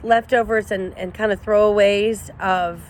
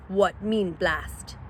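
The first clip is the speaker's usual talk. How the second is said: dim coyote; 6 dB quieter, much slower than usual. A narrator's reading. Coyote asks.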